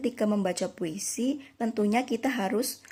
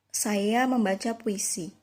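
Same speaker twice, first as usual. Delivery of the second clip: "Saya membaca puisi" said slowly as a plain statement, falling at the end; statement intonation; slower than usual. Shown as a demonstration. Teacher showing the first sentence without punctuation, "Saya membaca puisi" in slow statement intonation. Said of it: "kalimat yang pertama itu kan tanpa tanda".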